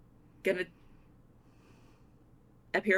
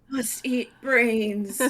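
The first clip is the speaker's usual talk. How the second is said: zombie; 4 semitones higher, much slower than usual. Pretend. Zombie line after zombie talk.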